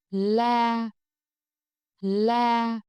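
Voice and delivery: LA held high, flat and long; level tone. Shown as a demonstration. Teacher models for repetition, LA high and level. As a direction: sustain LA on one high pitch. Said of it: "high and level".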